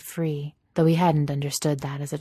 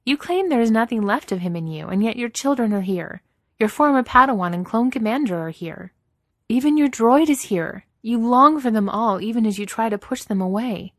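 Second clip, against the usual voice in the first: higher, louder, insistent woman's voice; Ahsoka, impassioned; 7 semitones higher, 7 dB louder than usual. Acted. Ahsoka confronting Vader about those he longs for, impassioned. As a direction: confront them, pressing each point harder.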